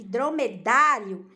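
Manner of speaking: "dromedário" with a strong, lengthened "dá"; stress on DÁ. Shown as a demonstration. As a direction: lean on the "dá" in "dromedário". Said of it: "o som mais forte está no dá".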